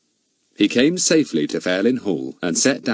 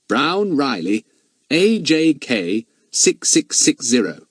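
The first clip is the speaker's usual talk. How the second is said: noting it down; 5 semitones higher, slower than usual. Acted. Noting the car number.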